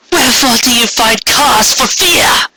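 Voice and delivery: lofty alicorn, impatient; imperious queen questioning. Acted. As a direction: press a frightened subject for an answer. Corona questions another pony.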